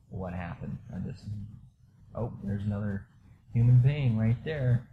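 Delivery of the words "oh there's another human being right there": mild surprise. Retold or imitated. Noticing the girl on the bed.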